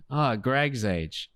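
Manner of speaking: slow, lightly imitated foreign accent; Tommy's accent. Man dodging mom's question about his age, mock accent. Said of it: "Do you have an accent".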